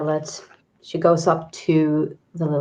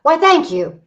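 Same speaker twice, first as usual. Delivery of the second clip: polite character voice; 9 semitones higher, 4 dB louder than usual. Acted. Player voices Charlotte.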